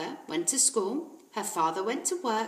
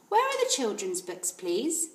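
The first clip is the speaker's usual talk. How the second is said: put-on polite little girl; 3 semitones higher than usual. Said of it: "Matilda asked".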